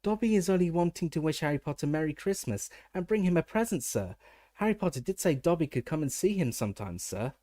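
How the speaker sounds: high anxious squeak; squeaky house elf. A narrator's reading. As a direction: squeak it out nervously. Dobby voice held.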